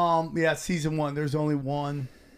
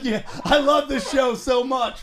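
laughing mock enthusiasm; 5 semitones higher, 4 dB louder than usual. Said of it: "I'm like".

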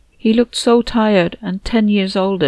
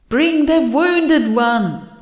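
slow, high, insistent whisper; urgent whispered command in the head; whispery telepathic voice; 8 semitones higher, much slower than usual. Acted. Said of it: "Andina is insisting really loudly".

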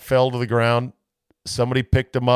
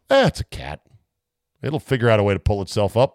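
mock shrug; 3 semitones lower, faster than usual. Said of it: "the first thought was".

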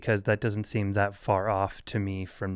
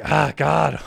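loud, higher-pitched exasperated outburst; 6 semitones higher, 7 dB louder than usual. Retold or imitated. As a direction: retell losing patience with a kid. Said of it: "losing patience and feeling frustrated".

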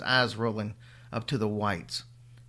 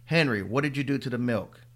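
raspy. Acted. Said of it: "her voice raw and raspy".

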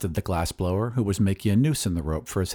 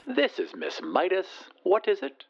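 high, sweet lady on the phone; 9 semitones higher, 3 dB quieter than usual. A narrator's reading. Miss Midas answers her caller, sweet high voice. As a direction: answer sweetly in a lifted, feminine pitch. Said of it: "a sweet voice said".

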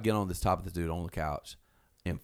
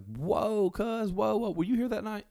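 much higher alarmed voice; startled whoa; 14 semitones higher, slower than usual. Retold or imitated. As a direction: jump back, shocked and high. Canyon startled by lunge.

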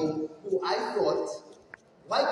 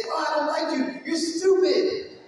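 higher, louder, mocking anger; mock angry outburst; 8 semitones higher, 3 dB louder than usual. Speaker imitates how angry people insult, raised and mocking. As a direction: toss off a typical angry insult. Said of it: "Most people get angry and they say".

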